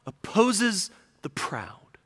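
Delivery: whispered emphasis; hushed. Real, not acted. Preacher warns the congregation in a whisper. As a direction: breathe the words out in a whisper.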